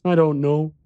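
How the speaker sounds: put-on high-pitched child voice; young boy. A narrator's reading. Boy unable to show the exit, child voice. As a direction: answer as an earnest little boy.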